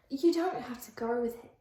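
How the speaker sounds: a shaky attempt at an Australian accent. Shown as a demonstration. The vlogger fumbling an Australian accent while voicing Liam. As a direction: say it like a bad Australian. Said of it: "That's Australian".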